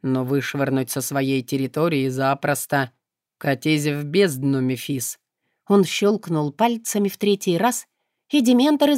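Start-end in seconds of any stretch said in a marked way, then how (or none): 0.0-5.2 low, calm, detached voice; indifferent demon. Acted. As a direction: agree without any feeling, lower. Demon voice continues.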